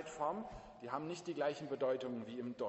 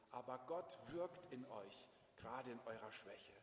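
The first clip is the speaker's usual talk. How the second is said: soft comforting; 5 semitones lower, 9 dB quieter than usual. Acted. Quiet comfort to the congregation.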